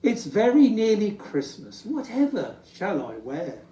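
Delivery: a touch of a fretting Santa; Santa in despair. Acted. Santa fretting about Christmas, mildly despairing. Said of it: "sighs Santa in despair".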